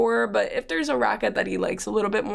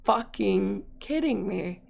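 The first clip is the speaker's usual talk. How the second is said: retold exasperation; much slower than usual. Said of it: "I roll my eyes".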